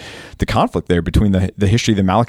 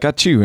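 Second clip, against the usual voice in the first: mock sneeze; 6 semitones higher than usual. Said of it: "It's like".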